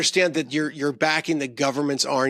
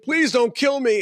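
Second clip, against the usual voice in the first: begging; 9 semitones higher, slower than usual. Retold or imitated. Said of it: "the guy's like".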